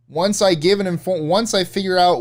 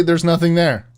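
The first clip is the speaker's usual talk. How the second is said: "there's nothing there" louder, pressed hard; emphatic insistence; 2 semitones higher, 4 dB louder than usual. Real, not acted. Insisting to her friend there are no ghosts, loud. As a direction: insist firmly, raising the voice. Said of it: "I'm literally".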